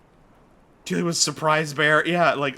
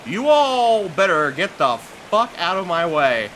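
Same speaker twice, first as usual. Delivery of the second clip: slow, louder threat to the crowd; mad warning; 3 semitones higher, 4 dB louder than usual. Real, not acted. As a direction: drag each word out, really fed up. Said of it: "Oh, I'm so mad right now".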